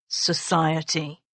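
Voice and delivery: "society" slow and sneering; sneered word. Acted. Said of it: "He sneered on the last word".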